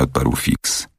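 usual speaking voice

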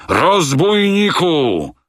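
very high, drawn-out enraged cry; furious shout. A narrator's reading. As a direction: howl the insult. Captain raging.

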